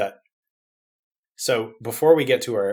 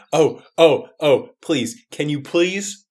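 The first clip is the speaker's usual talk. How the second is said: eager begging, spaced out; imploring, half in jest; mock pleading; much slower than usual. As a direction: plead playfully for a favour. Begging co-host for a villain.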